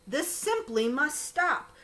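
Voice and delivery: slow, mild mock shout; firm slow command; mouse shouting. Mouse scolding the elephant, mild mock shout. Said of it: "sat up and shouted".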